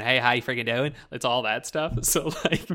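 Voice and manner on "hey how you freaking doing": lightly demonstrated rural Canadian accent; a hint of backwoods Canadian accent. Shown as a demonstration. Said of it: "my accent growing up".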